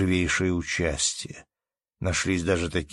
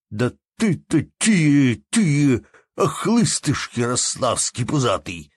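loud, higher heated innkeeper; heated retort; 6 semitones higher, 5 dB louder, slower than usual. A narrator's reading. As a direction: fire the insult back hotly. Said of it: "возразил не менее запальчиво хозяин".

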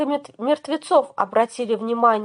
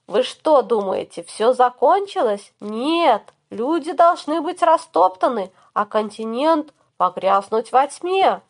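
booming echoing villain monologue. Acted. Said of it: "Зловещий голос Беракона эхом разнёсся".

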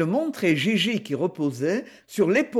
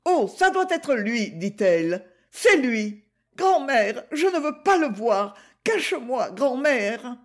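passionate plea; 5 semitones higher than usual. Acted. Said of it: "À l'accent bas et passionné".

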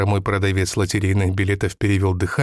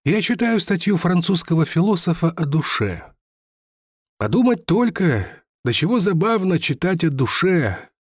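higher, lightly voiced old seller telling his fall; lightly voiced lottery seller; 4 semitones higher than usual. Lottery seller tells the narrator his family's ruin, lightly voiced and higher. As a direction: recount lost riches with mild bitter pride. Seller muses about the soul.

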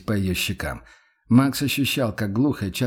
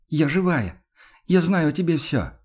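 higher, emphatic woman's protest; indignant insistence; 6 semitones higher than usual. Acted. Yana tells Max she is real, indignant. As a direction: insist on it, pitched up and wounded. Яна горячо доказывает, что живая.

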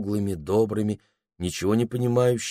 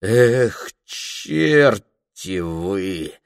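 expressive jeer; 3 dB louder, much slower than usual. Acted. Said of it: "выразительно проговорила она".

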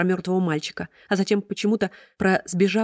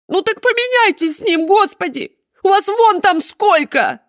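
очень высоко и громко, сквозь слёзы; выкрикнуть сквозь рыдания; плач с криком; 8 dB louder, slower than usual. Acted. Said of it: "снова заплакала". (хозяйка Сеттера кричит на чиновницу, плача)

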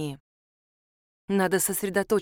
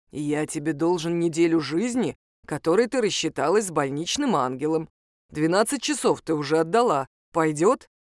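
wolf's voice; 4 semitones lower than usual. Acted. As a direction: lower wolf voice, steady. Wolf recalls their secret.

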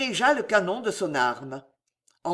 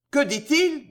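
high-pitched, stunned question; stammering disbelief; 7 semitones higher, 3 dB louder than usual. A narrator's reading. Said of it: "bégaya Charles".

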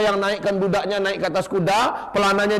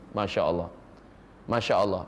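hushed awe; 10 semitones lower, 6 dB quieter than usual. Real, not acted. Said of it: "preacher marvels softly".

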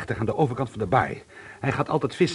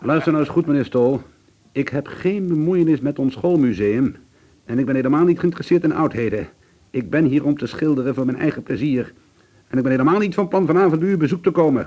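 firm rebuke; 5 dB louder than usual. Acted. Teacher angrily rebuffs Stol.

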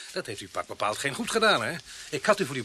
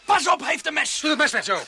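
high, loud warning cry; alarmed shout; 12 semitones higher, 7 dB louder than usual. Acted. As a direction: shout the warning as the knife appears. Sergeant warns of knife.

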